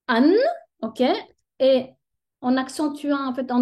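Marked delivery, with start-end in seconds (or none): 0.1-0.3 "an" as a doubled nasal an, held; teacher models "an" to students, stressed and slow; tanwin an sound. Shown as a demonstration. الفتحتان بنطق واضح. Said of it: "on va prononcer".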